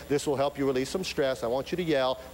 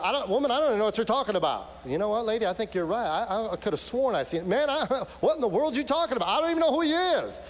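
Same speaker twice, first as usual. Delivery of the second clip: frantic denial; 5 semitones higher, faster than usual. Acted. Peter denies knowing Jesus.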